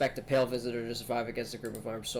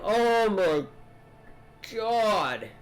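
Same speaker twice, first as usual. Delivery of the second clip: conspiracy nut voice; 6 semitones higher, 3 dB louder, much slower than usual. Acted. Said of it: "he talks like this".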